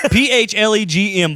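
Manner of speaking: slow letter-by-letter spelling. Shown as a demonstration. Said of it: "he got the P H as F".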